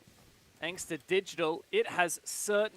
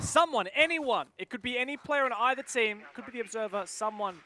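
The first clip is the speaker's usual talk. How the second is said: mock pleading; 6 semitones higher, 4 dB louder than usual. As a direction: beg the chat, hammed-up. Begging chat to pay respects.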